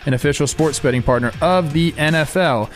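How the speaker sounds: fast legal disclaimer in places; ad read. Acted. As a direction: sell the deal like a radio spot. Sponsor ad read over music.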